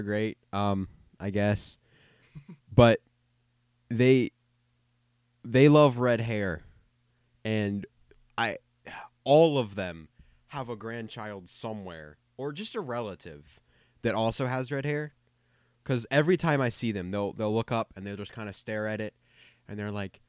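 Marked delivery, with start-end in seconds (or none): none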